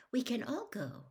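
high, pointed hint. A narrator's reading. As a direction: drop a meaningful hint. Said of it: "said Hermione pointedly".

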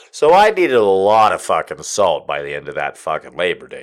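half-sobbing with laughter; laugh-crying. Real, not acted. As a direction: push through laughter tears.

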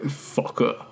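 hushed whisper. Acted. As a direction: whisper it under breath. Whispered after reading.

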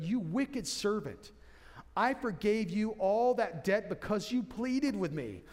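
slow, stern rebuke as the master; the master scolding his servant, slowly. Acted.

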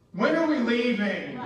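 drawn-out mock whine; whining kid. Kid wanting out of the park, mock whiny. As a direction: imitate a child begging to go. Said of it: "Whining in the wilderness".

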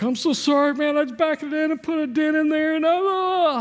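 put-on teen son confessing a dent, breaking down. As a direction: blurt out a broken apology to dad, voice cracking upward. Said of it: "and then I just broke".

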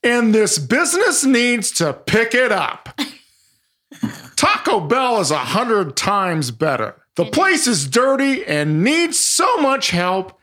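high, slow, hammed-up complainer voice; funny voice. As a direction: drag out every gripe in a high funny voice, laughing through it. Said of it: "read some final bad reviews and funny voices".

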